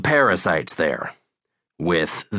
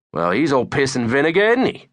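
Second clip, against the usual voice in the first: high fake British accent, lifting higher at the end; Jezza; 8 semitones higher, 3 dB louder than usual. A narrator's reading. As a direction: charm her with put-on cartoon British. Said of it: "you're not British".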